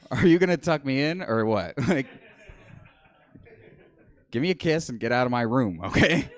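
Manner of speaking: put-on demanding child's voice, laughing at the end; bratty child. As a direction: play a spoiled toddler at bedtime. Voicing himself as a child to dad.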